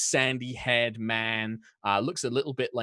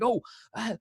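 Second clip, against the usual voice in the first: a hint of a higher English accent slipping away; faltering English accent; 8 semitones higher, 3 dB louder than usual. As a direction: lose the accent mid-line. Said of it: "I'm gonna lose all my accents".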